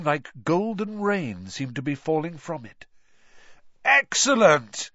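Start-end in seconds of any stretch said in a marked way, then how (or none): 3.8-4.9 loud, slow excited yell. A narrator's reading. Ron yelling with delight at the gold shower. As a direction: shout it out as coins rain down. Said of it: "yelled Ron".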